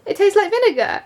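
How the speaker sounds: high, loud classroom answer; eager pupil answering. Retold or imitated. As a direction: call it out like a keen pupil. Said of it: "put up my hand and was like".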